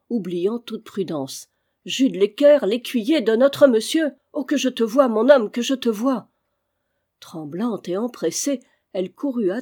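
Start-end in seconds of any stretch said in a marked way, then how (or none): 1.9-6.3 louder and higher, overflowing with joy; joyful outburst. A narrator's reading. Old housekeeper rejoicing over the returned squire, joyful and loud. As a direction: pour out her delight at seeing him. Old woman overjoyed at reunion.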